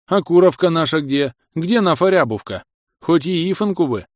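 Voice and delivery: put-on lisping old grumbler, a touch whiny; toothless old man. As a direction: whine for bread with no teeth. Old man asks for hen. (шамкающий старик)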